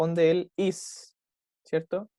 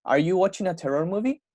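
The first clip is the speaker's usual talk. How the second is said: "Are you watching a terror movie?" climbing to a higher end; rising question intonation; 4 semitones higher than usual. Shown as a demonstration. Teacher correcting a student's question tune, rising intonation. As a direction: lift "movie?" upwards as a yes-no question. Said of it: "la entonación va como un poquito hacia arriba".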